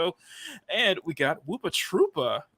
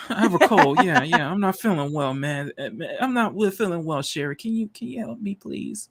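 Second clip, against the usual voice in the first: mimicking a sick whine. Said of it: "Mac's over there saying".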